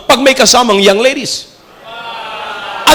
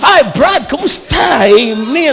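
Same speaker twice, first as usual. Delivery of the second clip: mock friendly greeting; slower than usual. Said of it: "kalabitin muna kita".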